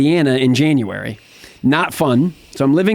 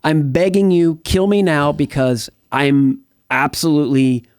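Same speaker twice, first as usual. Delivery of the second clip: raised, pleading voice, a mild echo of sobbing; retold desperate plea; 4 semitones higher than usual. Recalling his night of despair to the host, pleading and raised. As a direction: beg God as if still in that garage, but lightly. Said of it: "I'm just bawling my eyes out".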